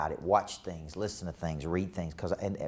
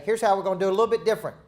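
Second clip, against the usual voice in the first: emphatic coach; 8 semitones higher, 5 dB louder, much faster than usual. Real, not acted. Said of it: "emphatic teaching".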